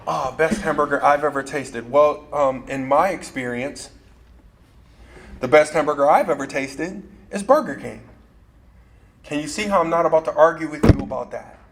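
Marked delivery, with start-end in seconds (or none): 0.1-8.0 humble framing. Shown as a demonstration. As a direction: offer it gently as your own view. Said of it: "Or I could answer it this way".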